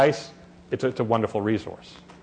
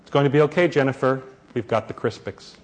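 soft, even reassurance fading quieter; talking softly. Retold or imitated. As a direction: keep soothing the crying child without rising. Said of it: "Mother, still talking softly".

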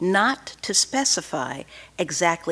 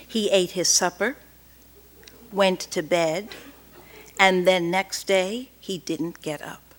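defiant. Acted. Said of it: "She said it as usual in her defiant".

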